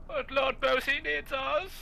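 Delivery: rally the troops in a silly high voice; squeaky heroic call. Pretend. Mock heroic falsetto again.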